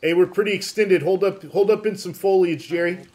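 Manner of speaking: loud command to hold up; shouted order. Real, not acted. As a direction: call the halt firmly.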